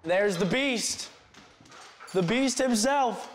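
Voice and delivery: high, drawn-out cooing; playful doting greeting. Real, not acted. Greets a pet with delight.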